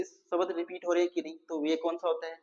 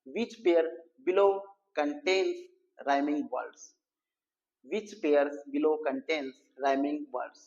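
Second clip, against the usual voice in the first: slow question read; much slower than usual. Shown as a demonstration. Reading the exam question aloud.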